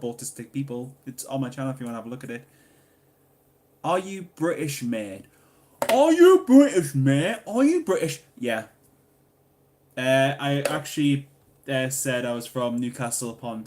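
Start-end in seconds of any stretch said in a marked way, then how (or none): 5.9-8.2 high, loud mock interrogation; hammed-up shouted question. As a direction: belt the question out in exaggerated disbelief. Hams up the question just read.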